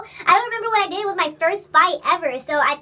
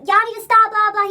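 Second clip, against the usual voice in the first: louder, higher mock shout; imitated yelling; 5 semitones higher, 6 dB louder than usual. Storyteller imitates the guy breaking up the fight, mock yelling. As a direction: call out to break it up, half in earnest. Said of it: "He was yelling in the back".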